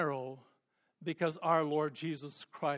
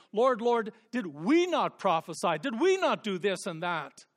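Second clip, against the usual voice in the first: mock pleading crowd; 4 semitones higher, 7 dB louder than usual. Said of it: "Many will say to me".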